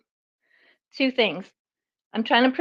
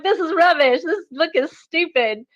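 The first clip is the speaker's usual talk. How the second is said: dismissive, raised voice; scornful rant; 2 semitones higher than usual. Retold or imitated. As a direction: scoff at the book.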